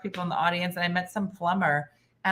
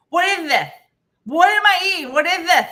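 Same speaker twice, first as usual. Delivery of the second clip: higher, louder alarmed questions; panicked friend; 8 semitones higher, 7 dB louder than usual. Retold or imitated. Friend in her face at the slide, alarmed and loud. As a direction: demand an answer in alarm. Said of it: "she was like".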